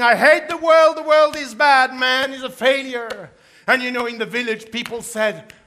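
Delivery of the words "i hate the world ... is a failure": complaining moan. Acted. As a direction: moan it like a man who hates everything. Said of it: "He was saying".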